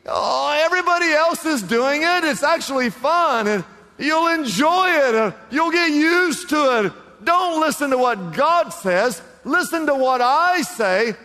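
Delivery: high, loud coaxing tempter, not whispered; a hammed-up devil's persuasion; mock whisper, tempter. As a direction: wheedle like the devil at your ear. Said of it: "He starts whispering".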